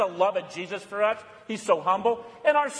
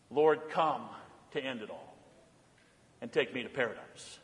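hushed prayer; 11 semitones lower, 9 dB quieter than usual. Acted. Prayerful sigh for the end.

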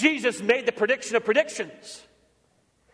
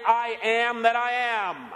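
slow, weighty voice of God; solemn divine voice; 2 semitones higher, slower than usual. Acted. God answering Moses, slow and solemn. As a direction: intone it slowly like God from the bush. God's words to Moses quoted.

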